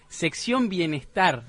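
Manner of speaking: slow, drawn-out TV host voice; Fantino. Retold or imitated. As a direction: announce it slowly like a TV host. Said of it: "vamos a hacer como Fantino".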